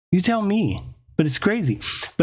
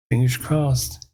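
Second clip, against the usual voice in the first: hopeful pleading; 3 semitones higher than usual. Retold or imitated. Acted hopeful prayer to be picked.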